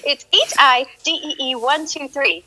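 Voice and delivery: H I D E E one two three spelled slowly, letter by letter; fixing her in-game name for the chat, slowly; slow correction. Real, not acted. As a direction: correct yourself, spelling it out carefully. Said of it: "Oh, no, no, it's not".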